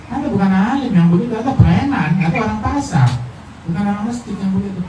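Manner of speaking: high, laughing scorn; mocking laugh. Real, not acted. The preacher scolds provocateurs, laughing and high. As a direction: laugh at the so-called scholar as a thug.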